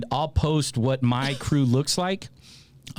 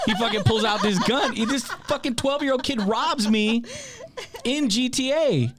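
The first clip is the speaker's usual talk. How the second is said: laughing through it; 9 semitones higher than usual. Real, not acted. Laughing while telling the robbery.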